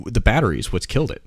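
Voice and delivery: chewing ice while talking; ice in mouth. Real, not acted. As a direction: talk around crunching ice. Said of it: "Sorry, I'm chewing ice".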